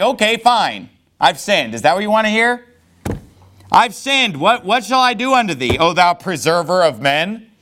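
sarcastic giving-in. Acted. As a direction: concede with biting sarcasm. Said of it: "Job uses a lot of sarcasm".

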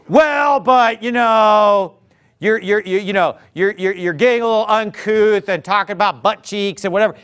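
lightly voiced complaining listener, loud start; hint of a whiny objector; mock objector. Objector quoted, shouted start.

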